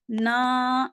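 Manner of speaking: نا as if a nasal noon ghunna closed it. Shown as a demonstration. Teacher demonstrates the mistaken sound, nasalised نا. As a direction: let the aa of نا go into the nose. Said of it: "جیسے اینڈ پہ نون غنہ ہو".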